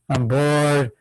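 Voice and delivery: listless, mock-bored voice; lightly acted tedium; bored complaint. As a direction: say it as if you can't be bothered. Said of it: "It sounds like I'm saying".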